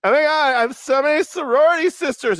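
put-on high, loud bubbly sorority girl; imitating an excited young woman; high girly voice. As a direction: gush like an excited college girl. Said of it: "she's like".

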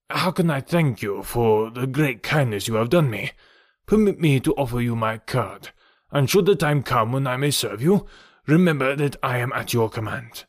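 lightly voiced, courteous Count; gently put-on gentleman's voice, grateful; earnest Count. Count thanks Tarzan and offers service, courteous.

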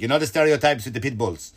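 put-on vaguely Hispanic accent turning French; muddled foreign accent. Caesar on pit bull stereotypes, muddled Hispanic-French accent. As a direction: attempt Caesar's accent, drifting toward French. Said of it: "I don't know what accent is that".

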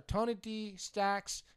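very slow, stretched-out name; announcer-style winner call. Retold or imitated. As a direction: draw the name out like a ring announcer.

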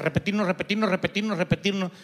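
droning repetition. Shown as a demonstration. Pastors drilling the sheep like geese, droning repetition. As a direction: repeat the word in an even loop. Mimics the goose's endless repeating.

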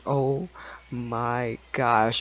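a hint of a shaky apology; quivering voice. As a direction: imitate a trembling, upset agent. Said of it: "voice quivering and everything, just like that".

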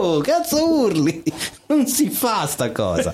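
high, slow imitated telling-off; drawn-out mock reproach, falling in pitch; mock hushing rebuke. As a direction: scold the shouter, playing it for laughs. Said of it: "Perché lo hanno zittito immediatamente".

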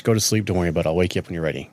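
low, soft parental murmur; softly reassuring, pitch dropping. Retold or imitated. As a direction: settle a sleepy child. Parent soothing sleepy kids.

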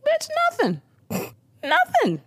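high-pitched, sassy refusal; mock indignant refusal. Podcaster voicing a friend refusing to share food, indignant. Retold snappy refusal at lunch.

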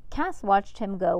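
ordinary delivery, nothing marked

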